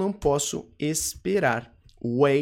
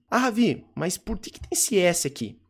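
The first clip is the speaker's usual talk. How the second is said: questioning student; 3 semitones higher than usual. Acted. Teacher voices a student's question.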